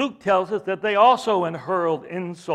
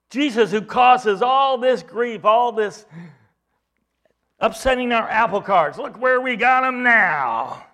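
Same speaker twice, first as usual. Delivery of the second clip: louder, higher smug triumph; gloating; 4 semitones higher, 4 dB louder than usual. Retold or imitated. Religious leaders gloating over Jesus, loud smug triumph. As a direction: crow over the victory. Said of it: "how they were gloating".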